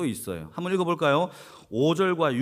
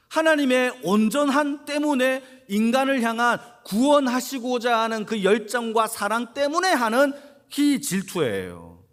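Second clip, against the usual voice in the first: louder, high-pitched preaching push; impassioned preaching; 6 semitones higher, 5 dB louder than usual. Real, not acted. Preacher contrasting human and divine jealousy, impassioned. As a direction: drive the point home with rising force.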